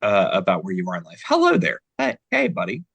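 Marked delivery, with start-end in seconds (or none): 1.3-2.8 high, loud put-on character voice; Buddy's new voice. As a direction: pitch way up into a goofy character greeting. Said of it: "I love Buddy's new voice".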